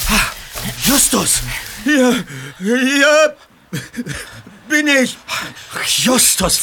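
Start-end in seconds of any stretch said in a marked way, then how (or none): 0.1-5.2 loud, high call from afar; calling back. Acted. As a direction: answer the searchers loudly. Lost friend answering from afar. (laut zurückrufend)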